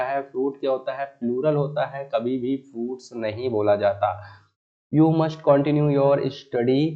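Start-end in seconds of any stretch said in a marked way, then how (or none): 4.9-6.9 the wrong sentence read slowly and loudly; slow dictation of the wrong version. Shown as a demonstration. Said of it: "studies".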